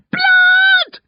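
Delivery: very high, loud horrified scream. A narrator's reading. Girl covered in blood to her parents, screaming. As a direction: scream it out in horror. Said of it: "Gret screams".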